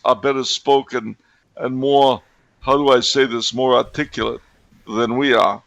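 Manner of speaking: a hint of a mobster impression; Italian gangster. Co-host teasing the host about Limeys, lightly voiced Italian gangster. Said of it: "Italian gangster impression".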